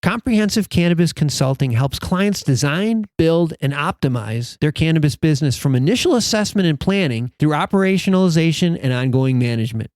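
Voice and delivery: lightly polished podcast ad read; podcast sponsor announcement. Acted. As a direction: read the sponsor message to listeners, measured. Reads a sponsor message.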